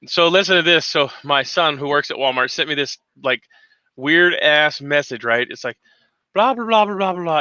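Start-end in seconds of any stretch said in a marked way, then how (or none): 6.3-7.4 flat robotic announcer drone; monotone voice. Retold or imitated. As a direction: drone it like a store speaker. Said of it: "this monotone voice".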